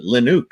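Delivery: Linux said as "LIN-ooks"; creator's Linux. Retold or imitated. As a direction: say Linux with an "oo" in the second syllable. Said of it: "how does he pronounce it".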